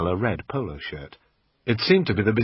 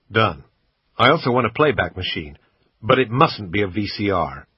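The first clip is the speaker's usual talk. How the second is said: put-on a louder American accent, kept up while haggling; bad American accent; 4 dB louder than usual. Brit quizzing the shop assistant, bad American accent. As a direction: keep the clumsy American put-on going. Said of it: "in my usual bad American accent".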